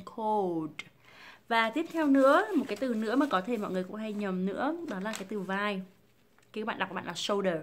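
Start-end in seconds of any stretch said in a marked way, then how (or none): 0.1-0.7 "cold" with the L sounded before D; tongue-up cold. Shown as a demonstration. Teacher recapping, "cold" with full dark L. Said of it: "hơi hất cái lưỡi của các bạn lên". 7.1-7.6 "shoulder" with no L, like "show-der"; common wrong shoulder. Shown as a demonstration. Teacher showing usual mistake, "shoulder" missing its L. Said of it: "Mọi người rất hay đọc là".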